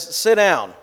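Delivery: put-on plain firm order to a child; firm command. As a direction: say it as a calm but firm dad. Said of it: "Dad sees him in the rearview mirror and says".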